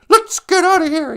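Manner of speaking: mock urgent starship order; hammed-up Shatner line. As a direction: bark it like a hammy TV hero. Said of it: "He was just so unbelievable".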